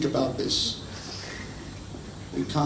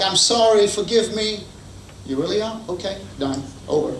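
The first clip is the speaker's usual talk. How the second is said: quick forgiveness; 7 semitones higher than usual. Pretend. Gas-stove spouse forgiving in a flash, higher and bright. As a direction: brush it off brightly.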